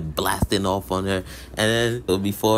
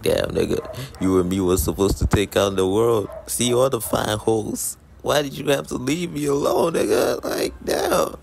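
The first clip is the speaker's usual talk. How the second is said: mock crying; 4 semitones higher than usual. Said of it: "crying and shit".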